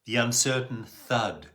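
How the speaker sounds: measured poem recital with long pauses; solemn, spaced-out verse reading; poetry reading. Acted. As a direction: read your poem aloud, letting each phrase hang. Reads own poem aloud.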